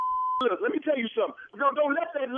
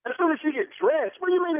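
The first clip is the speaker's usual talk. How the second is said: hollering; 8 semitones higher than usual. Real, not acted. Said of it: "Why you screaming and hollering".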